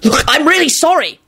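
high, desperate call; pleading yell; yelled apology. A narrator's reading. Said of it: "Lupin yelled".

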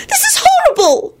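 extremely high, melodramatic cry; dramatic shriek. A narrator's reading. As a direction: shriek in horrified despair. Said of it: "Rosie shrieked dramatically".

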